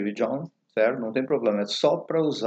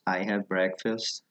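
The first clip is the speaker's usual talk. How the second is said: slow model phrase; 3 semitones lower, 6 dB quieter, slower than usual. Shown as a demonstration. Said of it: "Vocês precisam do have".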